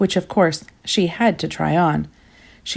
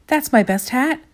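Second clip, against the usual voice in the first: a higher, upset cry about her hat; 7 semitones higher than usual. A narrator's reading. Little Miss Splendid crying out over her eaten hat, higher. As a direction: cry out in mock dismay. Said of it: "cried Little Miss Splendid".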